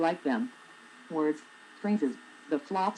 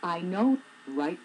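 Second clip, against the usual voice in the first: imitating coworker; 2 semitones higher, slower than usual. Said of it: "answered everything with the words".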